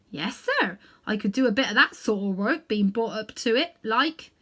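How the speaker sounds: a London cabby fumbling for words; cockney cabby. Acted. Cabby answers the great lion, humble cockney voice.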